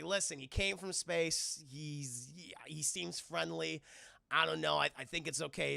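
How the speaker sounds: shaken. Retold or imitated. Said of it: "just fucking shaking".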